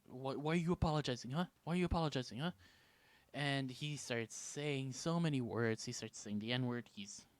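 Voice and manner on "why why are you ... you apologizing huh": quick, needling mock confrontation; hostile. Hostile man challenging the storyteller's apology, confrontational. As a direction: imitate an aggressive stranger demanding answers. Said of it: "starts to get extremely hostile with me".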